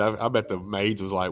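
normal talking voice

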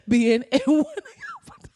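high, slow words through a laugh. Real, not acted. Comedian pitching herself to a director, laughing. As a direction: crack up mid-sentence.

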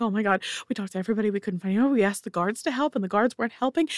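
overwrought parent babbling without stopping; rapid babbling. Acted. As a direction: let the words tumble out in one run. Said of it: "like, talking and mumbling".

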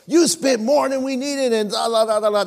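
hammed-up outburst of a new husband; retold fit. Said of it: "Man, I had a fit".

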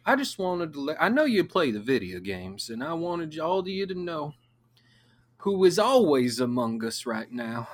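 high, lightly voiced youth pastor. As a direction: coax the kids like a cool pastor. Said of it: "being a youth pastor".

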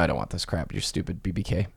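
low, soft aside as a disgruntled listener; grumbling listener. Pretend. Imagined listener complaining to the host, low mock grumble. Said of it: "There's probably listeners going right now".

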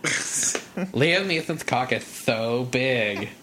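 slow, drawn-out mock voice; put-on voice. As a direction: drag it out campy.

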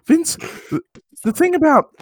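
a lightly voiced Owen Wilson rambling; Owen Wilson impression. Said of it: "It's not a good impre".

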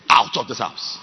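shouted order to leave; hammed-up furious shout; mock outraged yell. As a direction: throw him out loudly. Acted woman throwing man out.

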